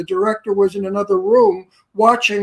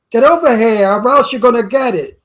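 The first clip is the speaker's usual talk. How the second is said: a hint of Brooklyn gangster, a touch louder; Brooklyn tough guy; 5 dB louder than usual. Shown as a demonstration. Actor showing director a Brooklyn gangster line, lightly tough. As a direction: growl it like a Brooklyn hood. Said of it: "That's Brooklyn".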